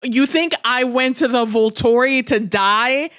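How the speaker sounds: slow, baffled disbelief, building to a rising question; a lightly voiced Edward who can't believe what he's hearing; incredulous Edward. Edward questioning Bella's reasoning about the Volturi, slow and disbelieving. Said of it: "incredulous expressions throughout this entire thing".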